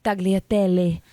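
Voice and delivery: put-on Italian accent, savoring the word; playful fake-Italian pronunciation; mock Italian accent. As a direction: roll it out in showy Italian. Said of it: "say something to me in Italian".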